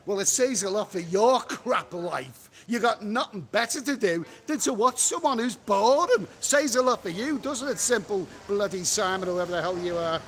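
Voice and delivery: rising annoyed scolding of a troll; irritated comeback. Real, not acted. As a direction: put the heckler in his place. Hits back at rude viewer.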